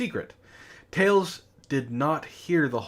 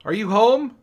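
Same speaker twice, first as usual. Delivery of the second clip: high loud call through a door; 10 semitones higher, 7 dB louder than usual. Acted. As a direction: call out to someone inside. Sonic knocking on Amy's door.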